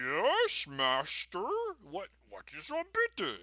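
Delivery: high, simple, eager servant voice; dopey friendly minion. Shown as a demonstration. DM demos a dopey friendly monster for listeners, eager. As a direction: sound eager and a bit dim. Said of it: "the dopey friendly".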